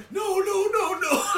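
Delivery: high, loud, laughing protest; hammed-up panicky high pleading; mock flustered denial. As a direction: protest like someone caught red-handed. Acting Batman's flustered denial.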